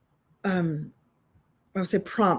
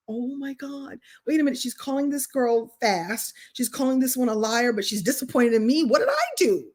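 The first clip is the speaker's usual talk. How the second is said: higher-pitched, puzzled inner voice; mock bewilderment; 5 semitones higher than usual. Pupil puzzles over the teacher's words, mock bewilderment. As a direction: work it out with growing mock indignation. Acts her younger self's bewildered reaction.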